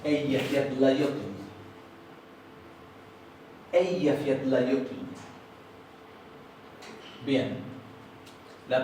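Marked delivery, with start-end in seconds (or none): 0.0-1.3 "Eyjafjallajökull" as "ey-ya-fyat-la-yo-kutl"; Icelandic pronunciation. Shown as a demonstration. Teacher showing how the volcano "Eyjafjallajökull" is pronounced in Icelandic. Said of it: "Eso se pronuncia". 3.7-5.0 "Eyjafjallajökull" as "ey-ya-fyat-la-yo-kutl"; Icelandic pronunciation. Shown as a demonstration. Teacher showing how the volcano "Eyjafjallajökull" is pronounced in Icelandic. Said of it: "Eso se pronuncia".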